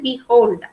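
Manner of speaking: "behold" with the weight on hold; pronunciation demonstration. Shown as a demonstration. Teacher modelling the word for students, "behold" pronounced be-HOLD. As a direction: say "behold" carefully, leaning on the second syllable. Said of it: "This is how we, we have to pronounce it".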